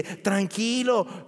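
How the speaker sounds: slow, drawn-out calming word. Retold or imitated. Someone calming an anxious debtor, slow and soothing. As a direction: stretch it out slowly, soothing. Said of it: "le dice".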